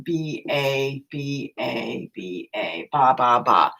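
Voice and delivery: put-on a mild baby babble, B A sliding into ba ba; baby babbling. Shown as a demonstration. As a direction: sound out the syllables like a babbling baby. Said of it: "That's a babbling sound".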